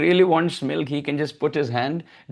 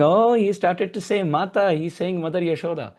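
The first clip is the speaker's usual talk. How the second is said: put-on higher, delighted praise for a baby; excited cheering; 4 semitones higher than usual. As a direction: cheer him on like a proud neighbor. Neighbor mothers cheer baby's word.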